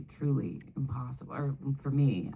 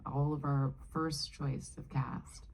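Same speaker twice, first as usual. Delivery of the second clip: whispering; 6 dB quieter, slower than usual. Real, not acted. Sharing an insider fact.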